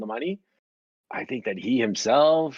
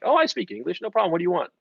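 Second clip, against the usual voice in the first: lightly acted, higher-pitched easy reply; breezy reassurance; 5 semitones higher, 3 dB louder, faster than usual. Dutch shop staff answering an English speaker, breezy. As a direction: imitate an obliging shop clerk, pitched up.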